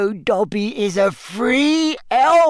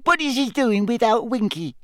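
high tearful wailing elf; 8 semitones higher than usual. Acted. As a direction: lament her master. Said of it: "tears leaking down her face".

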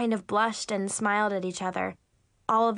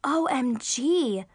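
excited exclamation; 3 semitones higher, much slower than usual. Acted. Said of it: "I exclaimed".

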